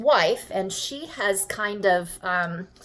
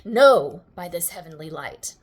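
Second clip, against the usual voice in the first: shocked; 2 semitones lower, 6 dB louder than usual. Acted. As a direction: recoil on a loud no, then hush. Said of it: "Desdemona is shocked".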